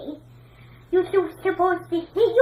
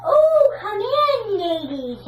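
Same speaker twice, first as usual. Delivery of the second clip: welcoming; slower than usual. Pretend. Welcoming guests at door.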